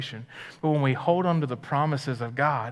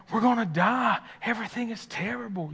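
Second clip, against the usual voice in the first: mock panic; 9 semitones higher than usual. Mocking panicking disciples.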